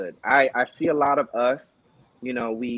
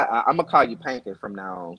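playful shout; faster than usual. Real, not acted. Playful nickname announcement.

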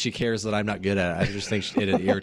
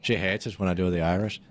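fairly good Irish accent; 4 semitones lower than usual. Shown as a demonstration. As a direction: put on a light Irish accent. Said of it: "That was kinda good".

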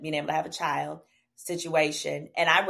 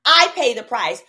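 retold angry rant; 4 semitones higher, 7 dB louder than usual. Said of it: "I said".

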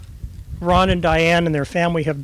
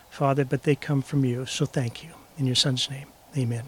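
prayer; 3 semitones lower than usual. Acted. Pastor praying over anniversary congregation, softening. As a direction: pray humbly for the gathering.

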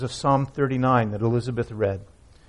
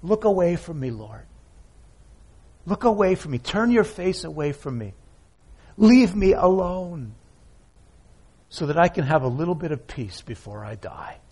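mild pleading David; 2 semitones higher than usual. Retold or imitated. Preacher voices David begging God in the paraphrase, mild pleading. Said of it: "I'll paraphrase it for you".

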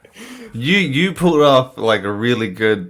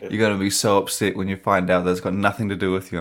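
quoted wife; 3 semitones lower, 4 dB quieter, faster than usual. Retold or imitated. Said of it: "And she's like".

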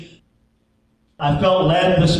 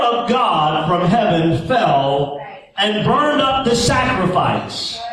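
slow, rising preacher's build; building sermon cadence; slower than usual. Acted. Preacher builds the miracles of Elijah in a slow, rising cadence.

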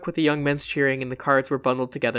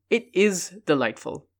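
with conviction; 4 semitones higher than usual. Acted. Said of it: "Villona said with conviction".

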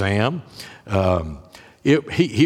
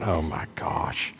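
whispered thought; 5 semitones lower, 9 dB quieter, slower than usual. Retold or imitated. Inner panic at the line.

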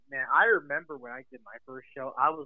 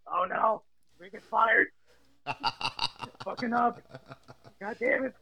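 mock panic; 5 semitones higher, slower than usual. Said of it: "I was like".

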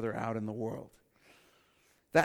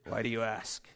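quiet, tight fake-calm answer; mock calm denial; 4 semitones lower, 5 dB quieter than usual. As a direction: pretend nothing's wrong, softly. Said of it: "And you're like".

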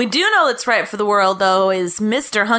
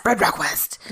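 lower, hushed movie-title reading; mock-dramatic title echo; 5 semitones lower, 4 dB quieter than usual. Co-host repeating the film title, mock-dramatic echo.

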